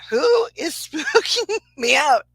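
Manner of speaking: half-spooked, half-amused cry; laughing call-out. Retold or imitated.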